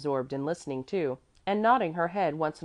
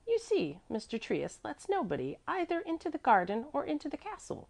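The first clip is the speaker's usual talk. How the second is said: higher pitch, emphatic on "nobody"; great emphasis; 11 semitones higher, 3 dB quieter than usual. A narrator's reading. Apollonie explains the rule to Mäzli, stressing "nobody". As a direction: press home "nobody", pitched high. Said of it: "repeated with great emphasis".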